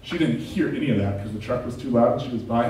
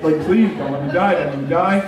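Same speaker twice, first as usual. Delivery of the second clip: mock panicked prayer; 2 semitones higher than usual. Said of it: "I'm basically crying behind this wheel".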